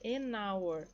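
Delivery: AN HOUR linked as "a-nour"; AN HOUR as one run, no H; silent H. Shown as a demonstration. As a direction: leave the H out of HOUR, joined to AN. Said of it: "Ou seja, sem som".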